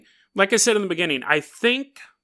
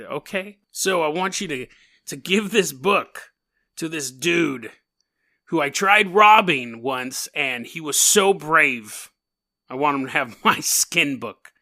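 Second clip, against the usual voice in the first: put-on old-timey voice. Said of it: "That's why I'm doing an old-timey voice".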